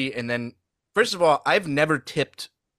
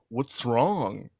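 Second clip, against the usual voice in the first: mock Rob Schneider. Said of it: "Rob Schneider's like".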